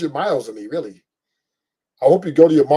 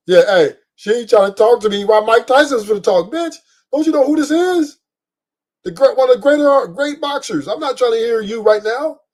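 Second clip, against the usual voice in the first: irritated rant; 5 semitones higher than usual. Retold or imitated. To his buddy about the girl interrupting Tyson, worked-up rant. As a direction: rant like she's talking over Tyson's big moment. Retells his annoyed reaction.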